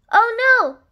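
high, loud oh no; dismayed gasp. Acted. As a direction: react with alarmed surprise. Narrator reacts to the fall.

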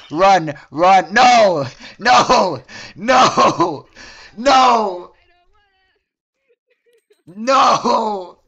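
loud, despairing no's; desperate shouting. Real, not acted. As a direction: shout no as it all goes wrong. Watching character get caught.

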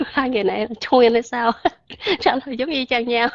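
talking through chuckles; amused, laughing between phrases; amused laughter. Real, not acted. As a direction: let laughs break up the teasing remark. Amused by two identical answers.

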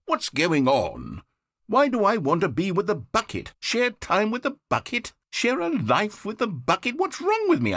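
rising alarm at his own heart; a narrator losing his composure; bewildered panic. Acted. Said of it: "I'm having feelings for the bucket".

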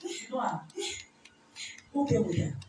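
whispered questions to the woman. Real, not acted. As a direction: lean in and whisper it. Pastor asks quietly during deliverance.

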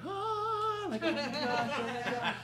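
high, loud, half-sung gushing; starstruck gush. Retold or imitated. A guest meeting Oprah, gushing high and starstruck. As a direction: squeal like meeting royalty. Retelling star-struck reaction.

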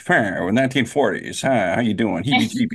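lightly put-on Mid-Atlantic accent; hint of forties Hollywood Mid-Atlantic patter; 1940s movie voice. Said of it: "we'll have to start talking like".

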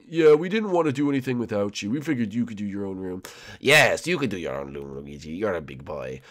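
lightly voiced character, dropping low; low, patronising aside toward the end; reassuring housemate. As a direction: explain it with a hint of teasing. Voices housemates answering Luigi.

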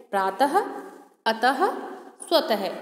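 प्रातः, अतः, स्वतः each ending on a breathy ha sound; visarga examples. Shown as a demonstration. Teacher showing the visarga sound to pupils. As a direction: let the final ha be heard after each word. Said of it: "तो इसका, अ, उच्चारण क्या हो रहा है?".

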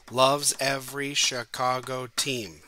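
"Mister Todd Harvey" slow, each syllable its own beat; clapping syllables. Shown as a demonstration. Teacher claps out the haiku's syllables, slow and even. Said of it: "if you clap out the syllables".

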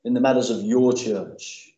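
earnest pastoral prayer voice; a preacher leading his church in prayer, earnest. Acted. Opening prayer before sermon.

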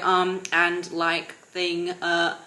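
mocking a filler-word talker; filler-word demo. Shown as a demonstration. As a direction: stumble through the fillers. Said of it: "instead of going".

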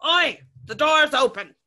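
loud, high, rough bellow; a guard calling out to his mate, shouting. A narrator's reading. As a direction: yell it across the dark theatre. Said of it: "A rough voice shouts".

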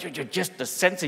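just the censor rising in disbelief; you're just the censor? asked in amazement; shocked disbelief. Retold or imitated. Family amazed to meet the censor, disbelieving rise. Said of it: "completely shocked".

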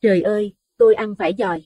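a woman cries out in horror; shriek of disgust. A narrator's reading. Wife shrieks after biting into a maggot, high and loud. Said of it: "bà vội hét lên".

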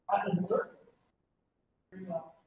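talking round hard candy; mouth full. Real, not acted. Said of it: "I'll put this big candy in my mouth".

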